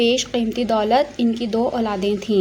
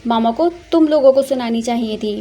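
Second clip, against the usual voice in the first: louder scolding of the maids; angry at the maids; 3 dB louder than usual. Acted. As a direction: snap at the servants to get out. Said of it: "अपना गुस्सा नौकरानियों पर निकालते हुए".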